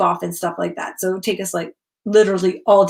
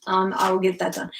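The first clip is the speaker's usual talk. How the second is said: whispering; 4 semitones lower, 4 dB quieter than usual. Real, not acted. Muttered aside to herself.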